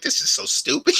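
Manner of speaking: high squeaky imitation of his mom's scorn. Son mimicking his mom's verdict in a high squeaky voice. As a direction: jump up in pitch, dismissive. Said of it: "She's like".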